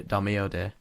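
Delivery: put-on slow, tentative Italian accent; attempted Italian accent. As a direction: try out an Italian advert line. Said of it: "think of an Italian accent".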